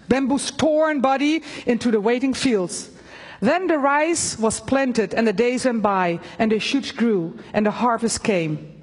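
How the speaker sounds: solemn storybook reading; story narration. A narrator's reading. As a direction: read the parable like a storyteller. Resumes the parable.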